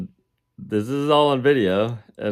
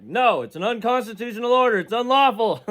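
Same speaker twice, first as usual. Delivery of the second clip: much higher squeaky voice; squeaky mock self; 14 semitones higher than usual. Retelling own refusal to the jailer, squeaky high voice. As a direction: play yourself as a squeaky defiant protester. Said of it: "I'm like".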